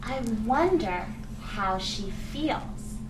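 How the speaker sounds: slow, curious thinking-aloud voice; wondering aloud. Shown as a demonstration. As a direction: muse slowly to yourself. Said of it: "And I thought to myself".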